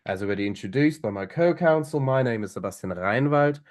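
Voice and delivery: measured formal courtroom opening. Shown as a demonstration. Counsel greeting the tribunal to open a pleading, formal and measured. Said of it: "you saw that the first sentence of my intro is one of the most important".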